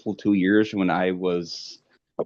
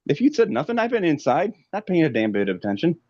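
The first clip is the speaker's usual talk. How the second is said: worked-up rant; 9 semitones higher than usual. Real, not acted. Ranting about warnings.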